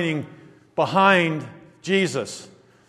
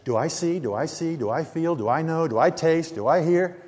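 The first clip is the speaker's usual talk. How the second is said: soft, fast, whiny self-questioning; lightly mocking a self-centred person; mock self-absorbed; 2 semitones lower, 5 dB quieter than usual. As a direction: mimic a navel-gazer quietly. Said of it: "it's all interpreted by".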